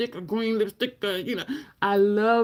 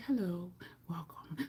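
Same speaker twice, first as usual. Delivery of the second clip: very soft, hushed, soothing voice; 2 semitones lower, 15 dB quieter than usual. Contrasting their own greeting with a woman's, imitating a soothing voice. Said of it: "she is just so soothing".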